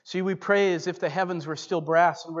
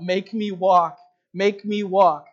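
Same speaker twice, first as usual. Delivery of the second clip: put-on louder, begging, the old man pleading to walk; retold pleading cry; 2 semitones higher, 8 dB louder, slower than usual. Old husband begging the preacher to heal him, loud pleading cry. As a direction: cry out the plea with a raised voice. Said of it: "He cried out".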